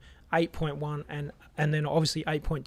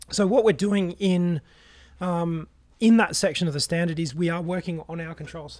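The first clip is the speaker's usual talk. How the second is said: strained hoarse voice; pushing through a lost voice; 3 semitones higher, 4 dB louder than usual. Real, not acted. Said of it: "It's gone".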